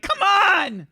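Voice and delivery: high, loud urging cry; high-pitched in-character yell; exasperated shout. Acted. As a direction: urge them on, fed up. GM voices exasperated other self.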